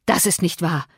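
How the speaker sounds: usual speaking voice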